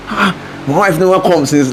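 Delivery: lightly voiced fretting old man; a hint of an impatient dad; impatient father. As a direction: grumble like a waiting husband. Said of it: "like, that kind of thing".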